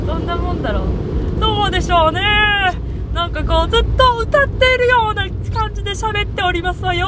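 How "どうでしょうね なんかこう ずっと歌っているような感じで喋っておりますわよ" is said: put-on higher, lilting young lady voice; sing-song rich girl. Shown as a demonstration. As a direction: speak as if singing, elegantly. (歌うようなお嬢様口調)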